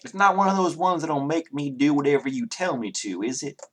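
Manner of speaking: lightly voiced suspicious Southerner; Southern character, wary. Townsman asking about a spell, wary Southern voice. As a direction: question it warily in a Southern voice.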